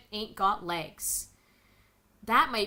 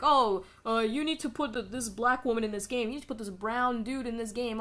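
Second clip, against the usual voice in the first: a touch of a whiny mock voice; lightly mocking a complaining activist. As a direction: parody them lightly, whining. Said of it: "crying and being like".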